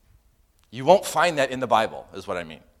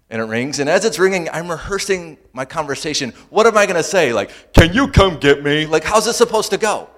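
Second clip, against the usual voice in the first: retold panic; 7 semitones higher, 11 dB louder than usual. Retold panic while phone rings.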